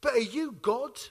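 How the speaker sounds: a little lad calling after the soldier; little boy's voice. Retold or imitated. Street urchin calls after the serviceman, small high voice. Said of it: "He says".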